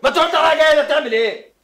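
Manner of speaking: angry yelling. Acted. Youssef confronting his brother in the villa, loud and angry. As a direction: bark the question at him.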